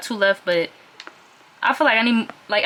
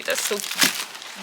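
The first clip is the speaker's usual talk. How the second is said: cooing whisper; 3 dB quieter, much slower than usual. Real, not acted. Showing tiny jeans to viewers, cooing whisper. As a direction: whisper it like it's adorable. Cooing over Hello Kitty lid.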